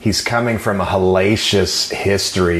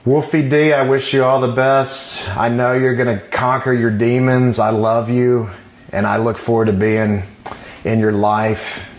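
wrestling promo. Shown as a demonstration. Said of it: "I'm trying to cut a promo now".

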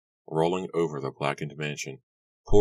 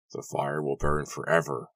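bearded man. Acted. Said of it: "a bearded man cried".

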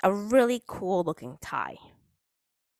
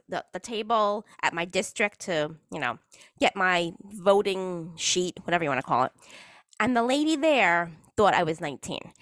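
ordinary delivery

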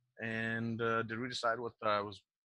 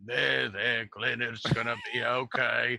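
consoling; 2 semitones higher, 4 dB louder, slower than usual. Acted. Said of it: "he goes".

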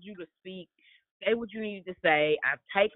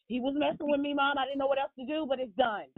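put-on kid explaining; 6 semitones higher, faster than usual. Little son answering mom.

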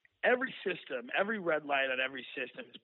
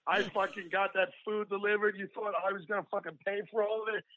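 a hammed-up rant at the guy, mildly raised; mock yelling; 4 semitones higher than usual. To the hospital guy over the food bill, a mock angry rant. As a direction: tell him off like you're furious, half in jest. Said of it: "I start yelling".

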